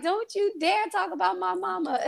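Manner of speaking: high, laughing mock threat; fierce comeback. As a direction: playfully imitate your younger self snapping back in defense of mom. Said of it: "I would go off on them".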